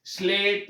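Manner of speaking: स्लेट said with a plain s cluster, no vowel before; correct pronunciation demo. Shown as a demonstration. Teacher shows students स्लेट as sleṭ. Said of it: "आप यहाँ उच्चारण करके देखें".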